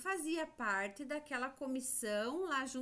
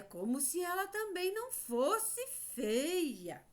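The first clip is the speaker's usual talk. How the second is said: high-pitched, lightly mocking quote; pointed remark, lifted high to the end; story aside; 6 semitones higher than usual. Teacher quoting the story's remark about the spider, high pointed aside. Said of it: "lá na história dizia".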